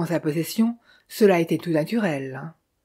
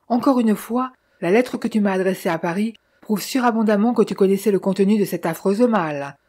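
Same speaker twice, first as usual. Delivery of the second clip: raised voice, building. Acted. Austin urges his brother Philippe to confess, rising to a shout. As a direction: press him harder and harder until you shout his name. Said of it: "ce fut lui-même qui éleva la voix".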